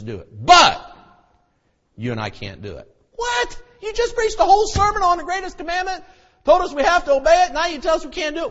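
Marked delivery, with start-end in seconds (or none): 3.1-8.5 much higher, louder, fast protest; indignant objection. Acted. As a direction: cry out in disbelief. Imagined listener protesting.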